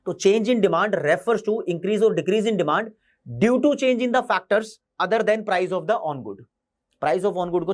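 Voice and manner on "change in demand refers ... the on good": very slow, word by word, for notes; slow dictation. Shown as a demonstration. Teacher dictating the change in demand definition, very slow. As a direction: dictate the definition slowly so it can be copied.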